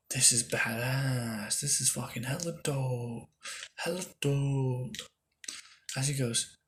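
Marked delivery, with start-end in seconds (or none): 0.1-5.0 drawn-out, impressed hype; slow excited hype. Retold or imitated. A girl amazed by his new eye power, slow excited praise. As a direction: savor each word, slow and amazed. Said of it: "she goes".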